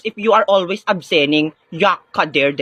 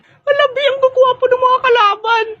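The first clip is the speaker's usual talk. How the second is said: very high, hammed-up fangirl wail; swooning squeal. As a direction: squeal as if overcome by handsome men. Swooning over handsome enemies. (kinikilig na matinis na tili)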